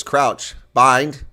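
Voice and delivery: imitated referee's scrum call; referee's spaced, loud commands; Holly Davidson. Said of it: "Holly Davidson says".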